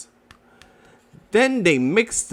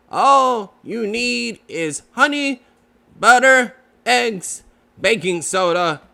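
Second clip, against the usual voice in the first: a lightly voiced fussy Rabbit, higher on the list; 3 semitones higher than usual. Rabbit lists ingredients for Pooh, lightly voiced fussy. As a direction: Rabbit reading out a recipe, briskly.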